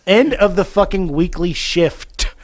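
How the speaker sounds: slow, laughing through the misread line; reading the line aloud while cracking up. Real, not acted. Reading own script to co-host, laughing slowly. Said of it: "it did it again".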